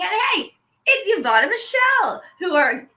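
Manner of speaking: high, bright burst of delight; light up announcing your favorite pair; excited. Real, not acted. Host gushing to her co-host about Yvonne and Michelle, high and excited.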